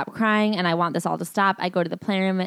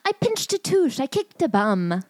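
silly mock voice; 7 semitones higher than usual. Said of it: "mocking the memoir's excuse".

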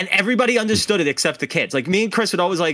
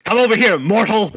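commanding summons; 6 semitones higher, 6 dB louder than usual. Retold or imitated. Immortal man commanding his fiancee.

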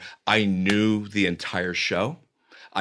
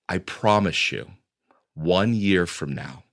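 teary promise; 5 semitones lower than usual. Retold or imitated. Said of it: "teary-eyed".

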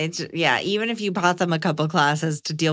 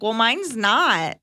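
dry retort; 3 semitones higher, much slower than usual. Retold or imitated. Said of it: "I'm like".

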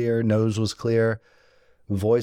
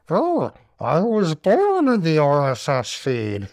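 higher, louder put-on villain voice, hammed up; Bane impression; 7 semitones higher, 4 dB louder than usual. Host mocking a Batman villain for podcast listeners, hammed-up voice. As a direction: growl it out like a masked movie villain, badly on purpose. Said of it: "probably a terrible impression of Bane also".

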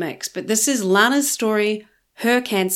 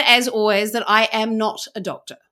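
ordinary talk, nothing marked

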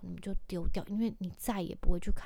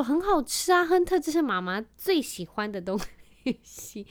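mock sweet; 5 semitones higher than usual. Mom answers son sweetly.

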